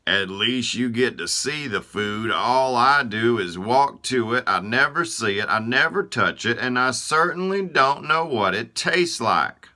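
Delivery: high, loud indignant voice, speeding up; Feet indignant. Acted. Feet scoffing at Eyes over never tasting food, high and indignant. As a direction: snort it out and rattle off the grievances.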